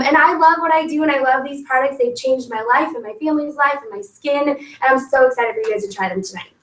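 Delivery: cheery party intro, quick at the end; upbeat sales pitch. Shown as a demonstration. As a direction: greet the guests like a hostess. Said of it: "I'm gonna make one for you right now".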